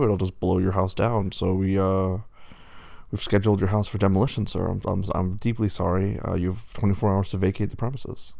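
lightly voiced wolf as an official; a hint of officialdom delivering bad news; county official wolf.

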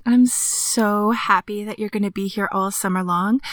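whispering. Acted. Whispered sweet talk.

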